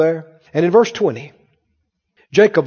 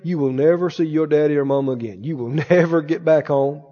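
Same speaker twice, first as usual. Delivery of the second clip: sneering devil; 7 semitones lower, 5 dB quieter than usual. Acted. Devil taunting.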